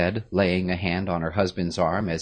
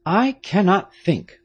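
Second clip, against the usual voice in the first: lightly voiced stern nobleman, higher and louder; a grave father giving orders, a touch of urgency; Marquis, grave father; 14 semitones higher, 7 dB louder than usual. A narrator's reading.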